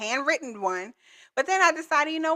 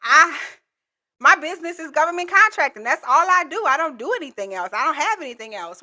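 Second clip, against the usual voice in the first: imagined objecting viewer; 3 semitones higher, 4 dB louder than usual. Acted. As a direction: voice a viewer's protest, settling back toward normal. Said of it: "those of you gonna be like".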